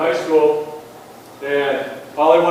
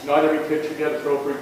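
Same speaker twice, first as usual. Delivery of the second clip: mock common saying; faster than usual. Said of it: "everybody says".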